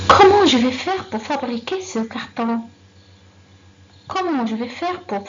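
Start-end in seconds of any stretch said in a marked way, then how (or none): 0.1-2.6 loud example question. Shown as a demonstration. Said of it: "Elle commence par comment".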